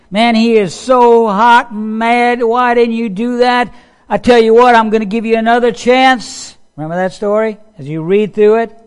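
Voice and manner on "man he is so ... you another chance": higher, hot-tempered king's voice; angry king. Retold or imitated. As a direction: play the furious king giving one last chance. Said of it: "He is hot and bothered. He is so angry".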